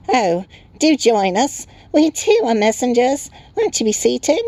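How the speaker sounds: very high, loud little creature; twittering Tiny. A narrator's reading. Tiny creature inviting a stranger to sit, high twitter. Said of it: "and twittered".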